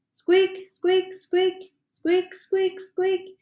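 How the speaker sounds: high, eager rodent squeaks; excited squeaking. Acted. Hamster excitedly squeaks at the frog, high eager squeaks. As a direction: squeak like a thrilled little hamster. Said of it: "he says in a very excited voice".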